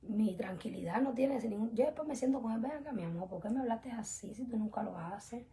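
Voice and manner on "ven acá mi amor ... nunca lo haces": softer, hushed and loving; tender coaxing. Retold or imitated. Wife calming her husband after he shouted, soft and tender. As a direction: gently draw him in, half whispered.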